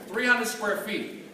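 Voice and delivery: slowly, stressing "hundred"; slow emphasis. Shown as a demonstration. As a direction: spell out how tiny it was. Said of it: "repeats size for emphasis".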